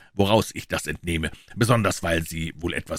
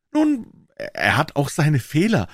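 higher-pitched eager pawnbroker; Wilson's voice; 10 semitones higher, 4 dB louder, slower than usual. A narrator's reading. Wilson, the pawnbroker, answering Holmes, in a higher voice. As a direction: pitch him up as the earnest tradesman.

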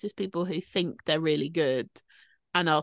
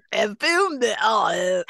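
laughing; 3 dB louder than usual. Pretend. Repeating the joke phrase laughing.

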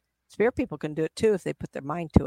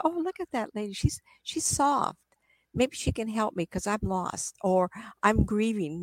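lost spirit; 3 semitones higher, 3 dB quieter than usual. Retold or imitated. Lost spirit hoping the lady will help, high and soft. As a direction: coax it out softly like a lost ghost.

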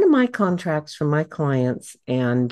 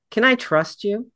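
pointed, higher-pitched doubting question; distrustful challenge; 6 semitones higher than usual. Shown as a demonstration. Speaker mimicking the wrong tone for handing over a bio, pointedly distrustful. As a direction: ask it as if you doubt them. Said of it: "doesn't say it with a tone of voice that".

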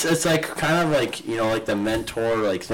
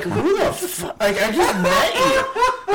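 mock outrage; slower than usual. Retelling reaction to push-up suggestion.

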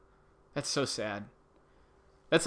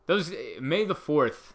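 weary groan; 4 semitones higher, 5 dB louder, slower than usual. Real, not acted. Groaning at the trending phrase.

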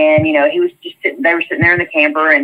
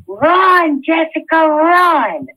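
retold urgent yell; 10 semitones higher, much slower than usual. Jeremy tells Jessica to flee, urgent high-pitched mock yell. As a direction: push her away with a pitched-up plea.

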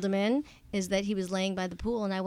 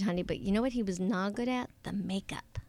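conspiratorial whisper; 5 dB quieter than usual. Real, not acted. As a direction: lean in and whisper it. Whispered aside about husband.

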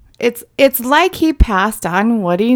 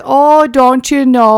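slow, loud, mocking mother; loud mock mom; 5 semitones higher, 8 dB louder, slower than usual. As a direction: belt it out as the mother. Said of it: "she was like".

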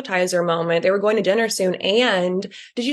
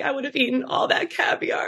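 imitating Ramona; 5 semitones higher, 4 dB quieter than usual. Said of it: "being like".

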